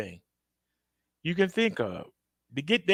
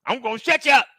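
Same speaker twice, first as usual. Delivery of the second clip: menacing threat; 8 semitones higher, 4 dB louder, faster than usual. Retold or imitated. Killer voiced menacing.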